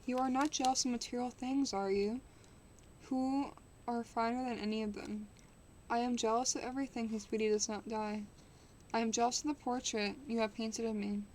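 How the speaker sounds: steady storybook reading voice; story narration. Acted. Streamer reading a classic novel to chat, measured narration. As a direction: read the novel aloud to chat, even and clear.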